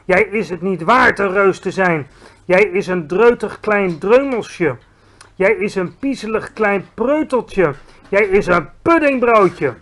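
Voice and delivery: loud, mocking giant insults; insulting giant. A narrator's reading. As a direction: taunt the small giant. Bloodbottler insults. (luid honend gescheld)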